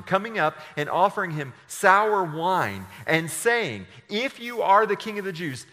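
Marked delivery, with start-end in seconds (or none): 4.1-5.6 soldiers mocking. A narrator's reading. Soldiers jeer at Jesus, loud high mockery. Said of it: "The soldiers also mocked him".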